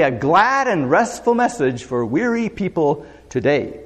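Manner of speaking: slow title announcement; announcing a title. Shown as a demonstration. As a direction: present it like a heading. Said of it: "title it this way".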